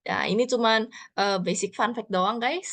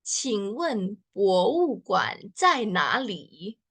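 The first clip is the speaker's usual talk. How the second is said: slow demo; much slower than usual. Shown as a demonstration. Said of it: "gimana cara bacanya?".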